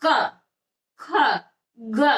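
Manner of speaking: क, ख, ग as separate long syllables; sound demonstration. Shown as a demonstration. Teacher showing students throat sounds, क, ख, ग sounded out separately. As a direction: say क, ख, ग one by one with long "aa" and pauses. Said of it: "जैसे आप बोलते हो".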